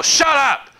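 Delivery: high-pitched mock yell of disbelief; retold shout. Friend blurting at Todd in shock, high mock yell. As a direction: belt it out high like a stunned friend. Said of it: "And he's all".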